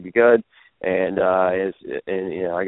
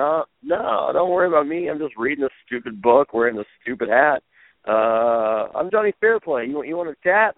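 higher, breezy and cheeky; cocky mock innocence; 5 semitones higher than usual. To Dusty in his own office, cheeky mock innocence. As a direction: play it dumb and smug.

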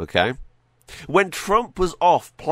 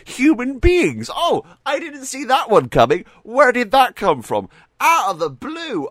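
sarcastic surprise; 10 semitones higher, 4 dB louder than usual. Acted.

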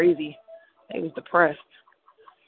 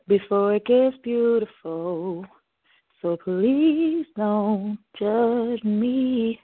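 slow pleading; 4 semitones higher, much slower than usual. Real, not acted.

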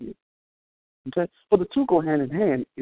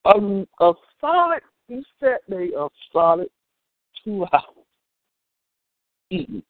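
laughing. Real, not acted. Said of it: "I'm kinda laughing".

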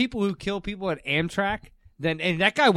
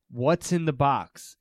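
movie quote; 3 semitones lower, slower than usual. Shown as a demonstration. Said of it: "but in Brad Pitt accent".

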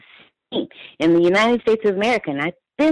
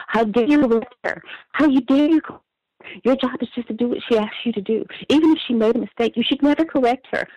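higher, shrill-free indignant scold of an entitled poll worker; mock indignant scolding; 7 semitones higher, faster than usual. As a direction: play the outraged lady lecturing the judge, pitch up. Retold angry poll workers scolding.

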